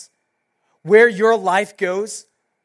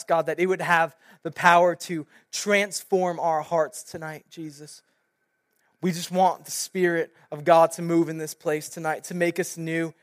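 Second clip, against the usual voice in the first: soft, earnest spoken prayer; 3 semitones lower, 4 dB quieter than usual. Real, not acted. Pastor opening the evening's message in prayer, softly praying. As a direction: pray quietly and gently to God.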